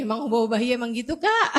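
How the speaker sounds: fast, giggling question; a friend laughing as she asks about Hubabah. Retold or imitated. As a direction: ask through a laugh like an amused friend. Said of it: "teman saya ketawa, dia ngakak".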